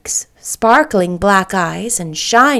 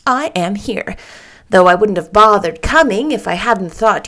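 chirpy little lady. Acted. Little lady chattering to Anne about James, chirpy. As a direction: chirp it out like a busy little bird.

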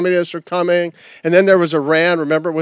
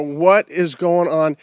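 groggy waking; slower than usual. Pretend. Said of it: "wake up and go".

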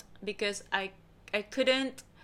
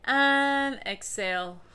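slow exhale; 4 semitones higher, slower than usual. Shown as a demonstration. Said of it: "Inhale deeply".

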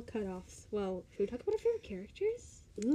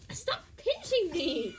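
laughing protest; 7 semitones higher, much slower than usual. Real, not acted. Sister pinching her, laughing.

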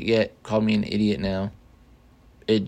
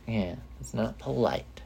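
hushed; 10 dB quieter, slower than usual. Real, not acted. Mic moved near sleeping dog.

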